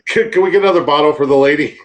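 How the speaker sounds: loud, quick, laughing call to a waiter; laughing mock order. Friend jokingly orders wine for a drinker, laughing and loud.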